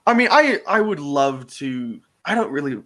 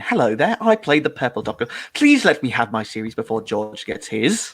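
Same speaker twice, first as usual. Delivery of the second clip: Dominic G. Martin impression. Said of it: "this is Dominic G. Martin".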